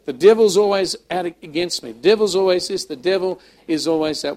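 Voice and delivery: mock complaint. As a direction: imitate a victim's exaggerated protest. Mimics a victim's complaining.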